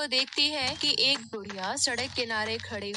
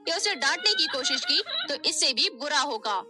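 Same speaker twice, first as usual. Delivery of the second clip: louder, higher harsh threat; threatening; 4 semitones higher, 4 dB louder than usual. Acted. Stepmother threatens Nisha after beating her, angry. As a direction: warn her coldly and hard.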